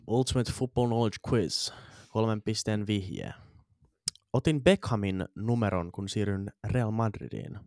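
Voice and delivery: slow, announced quiz title and clue; quiz host read. Acted. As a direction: read it out like a game show host. (hidas visajuontajan luenta)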